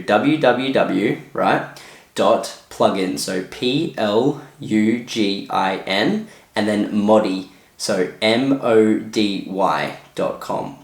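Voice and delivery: slow, letter-by-letter spelling. Shown as a demonstration. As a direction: spell it slowly for the viewer, pausing between letters. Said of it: "I'm gonna spell it out for you".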